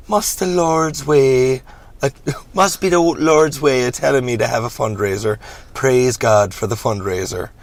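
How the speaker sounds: hammy southern preacher; lightly voiced reverend. Voicing the Reverend in the script.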